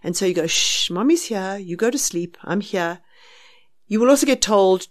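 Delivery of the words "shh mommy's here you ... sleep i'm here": slow, soft, reassuring lull; slow soothing. Retold or imitated. Mother talking a baby down to sleep, slow soft soothing. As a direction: talk the baby down, slow and gentle. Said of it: "just talking to them will calm them down".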